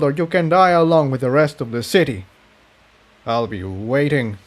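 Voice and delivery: lightly voiced smug villain; a hint of gloating menace; villain Rubidium. Villain giving Jigsaw his ultimatum, lightly gloating.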